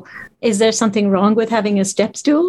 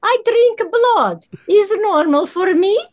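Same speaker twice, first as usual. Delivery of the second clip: put-on terrible Barovian accent, much higher and slowed; 10 semitones higher than usual. Playing Strahd to the hosts in a terrible Barovian accent. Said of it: "That's my absolute terrible Barovian accent".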